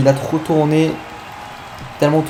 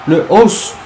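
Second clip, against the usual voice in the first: high, slow hyped finish call; excited call; 8 semitones higher, slower than usual. Real, not acted. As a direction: announce the finisher with awe. Calling the finishing move.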